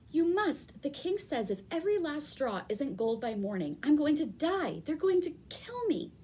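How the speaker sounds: high, loud wailing plea; a panicked girl wailing her doom. A narrator's reading. Opal wailing to the spinner that she'll die. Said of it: "And she wailed".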